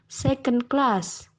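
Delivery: second class, slow, main stress on CLASS; primary stress on second word. Shown as a demonstration. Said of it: "Primary stress is on the second word".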